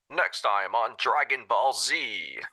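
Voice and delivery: slow dramatic radio announcer; walkie-talkie voice. Acted. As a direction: announce it like a crackly radio trailer. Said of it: "to say this in the walkie-talkie voice".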